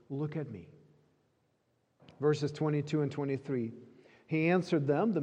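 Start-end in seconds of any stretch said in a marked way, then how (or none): 0.1-0.7 gentle invitation. Retold or imitated. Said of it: "Jesus' answer to every doubting heart is".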